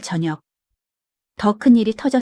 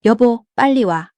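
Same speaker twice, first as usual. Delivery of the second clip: urgent shout; 3 semitones higher, 5 dB louder than usual. A narrator's reading. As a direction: call the husband in a panic. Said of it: "아내가 소리쳤습니다".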